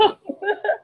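short high giggle; quick laugh bursting out. Real, not acted. Laughing reaction.

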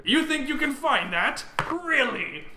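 high-pitched, incredulous laughing pirate; laughing hard. Acted. Main pirate scoffs at the uncle's plan, laughing hard. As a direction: squeal it through hard laughter, drawn out at first. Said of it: "The main pirate laughs really hard".

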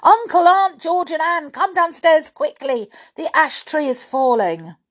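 high, urgent alarm call; shouting at full voice. A narrator's reading. Boy calling family downstairs from landing, shouting. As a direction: shout to rouse the whole house. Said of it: "Shouting at the top of his voice".

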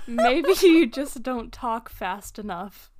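retold comeback with laughter breaking through; laughing sarcastic comeback; laughing retort. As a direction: say it while cracking up. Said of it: "And so I said".

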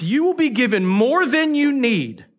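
emphatic promise. Shown as a demonstration. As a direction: drive the promise home. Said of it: "Don't miss this".

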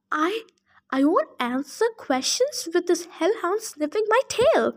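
put-on nervous old satyr. Satyr scared of the hellhound, nervous stammer. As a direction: stammer like a frightened old goat.

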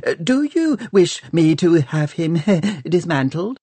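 high, quick twittering voice; chattering scientist. Acted. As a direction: chirp it like an eager tinkerer.

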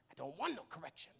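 quick, low throwaway "I don't want no correction"; mock double negative. Shown as a demonstration. Preacher jokingly misspeaks to the church, quick and low. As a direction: toss off "I don't want no correction" as a joke before fixing it. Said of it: "I don't want correction".

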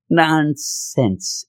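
"Nonsense" drawn out, both syllables leaned on; emphatic NONSENSE. Real, not acted. Reviewer dismissing the plot, emphatic drawn-out "Nonsense". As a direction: stretch out "Nonsense" with disdain.

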